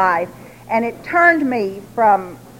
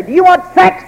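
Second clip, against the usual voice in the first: higher, louder and pushier than the first ask; wife forcing the question on her dragged husband; demanding, high and loud; 10 semitones higher, 5 dB louder than usual. Retold or imitated. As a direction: bark the question at him after dragging him. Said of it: "and then I'd turn around and say".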